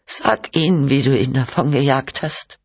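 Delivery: high, accusing challenge; demanding. A narrator's reading. Wife challenges husband about their banished son, demanding. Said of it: "forderte Cynthia ihn auf".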